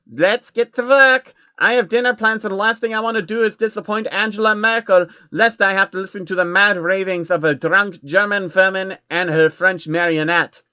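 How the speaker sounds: loud, lofty villain showing off his armory; Rothschild voice. Acted. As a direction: boast like a grand, smug banker villain. Rothschild character voice.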